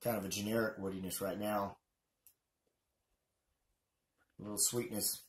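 talking around unlit cigar; cigar in mouth. Real, not acted. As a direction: lips closed on cigar. Seen 1: Cigar held at lips throughout while speaking; reference frames without it.

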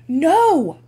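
a loud, high refusal; shouting. Acted. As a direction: yell it at your mother. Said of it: "I shouted".

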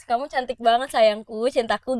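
softened, affectionate demo compliment; required loving tone. Shown as a demonstration. Woman dictating how boyfriends must say it, lightly affectionate. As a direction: coo it gently, word by word, as a model answer. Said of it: "nadanya harus".

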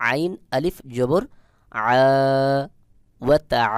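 আইন and আ squeezed from mid-throat; pressed throat ayn. Shown as a demonstration. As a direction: press the throat on আ and hold it long. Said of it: "একটু চাপ দিয়ে উচ্চারণ করতে". (আইন, আ গলায় চাপ দিয়ে)

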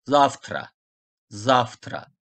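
"Zavtra" said as "ZAF-tra"; V read as F. Shown as a demonstration. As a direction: devoice the V of "Zavtra" to an F. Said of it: "V'yi F olarak okudum".

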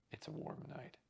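soft whisper, barely voiced; whispered aside. Dresser quietly fussing over Gardner before the show, whispered. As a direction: murmur it under the breath.

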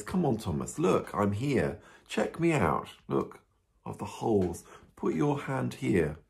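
gentle, mildly acted coaxing; kindly. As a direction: invite a doubter kindly, without reproach. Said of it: "I think very kindly he says".

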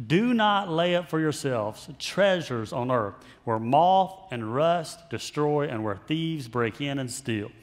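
slow, solemn Bible reading; scripture reading. Acted. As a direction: read the words of Jesus slowly, with weight.

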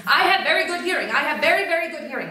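loud, high, fast comeback; sharp retort. Retold or imitated. Mother overhearing the gossip and snapping back, loud and quick. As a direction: fire it straight back at her.

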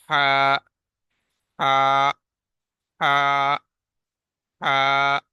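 ہا breathed from the middle of the throat; mid-throat letter drill. Shown as a demonstration. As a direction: repeat ہا with a firm throaty h. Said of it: "گلے کا درمیانی حصہ استعمال ہوتا ہے".

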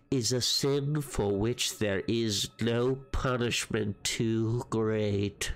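slow, creepy note-reading voice. Acted. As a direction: read it out slowly like a madman's note. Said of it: "You should always use that voice when reading things".

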